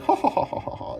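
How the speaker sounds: high airy mocking laugh; breathy, high-pitched scornful ha-ha; mock laughter. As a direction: cackle at him like a sneering snob. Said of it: "laughing at this poor".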